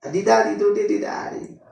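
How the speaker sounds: high, slow ecstatic babble of tongues; speaking in tongues. Shown as a demonstration. Preacher reenacting his first tongues to the church, in a high slow chant. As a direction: chant the syllables high and drawn out. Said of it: "tenía una nada más".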